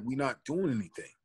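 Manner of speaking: quiet, restrained retort to the cop; calm protest. Retold or imitated. Retelling the first, held-back answer to the cop, said softly. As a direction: keep it down, don't provoke him. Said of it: "I'm like".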